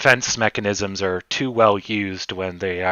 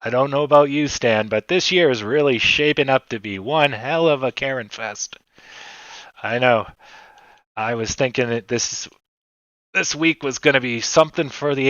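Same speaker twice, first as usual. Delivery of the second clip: frantic mock sports commentary. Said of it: "work on that announcer voice".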